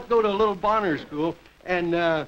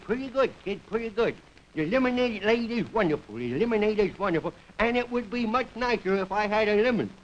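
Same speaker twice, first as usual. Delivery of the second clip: lightly voiced little fellow; a hint of a small boy talking. Small boy running a lemonade stand reports on business, lightly voiced little boy. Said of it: "there's a little, little fellow".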